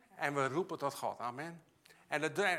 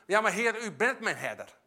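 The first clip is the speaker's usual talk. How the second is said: "Ja, maar Heer" rises with firm conviction, then a settled "u bent mijn herder"; confident declaration; 3 semitones higher, 5 dB louder than usual. Shown as a demonstration. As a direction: claim it as a sure truth, not a search. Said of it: "Nee, dan weet je van".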